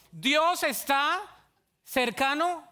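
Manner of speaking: very slow, high declaration; slow emphasis. Real, not acted. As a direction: stretch each word out. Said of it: "slow sermon emphasis". (declaración muy lenta y aguda)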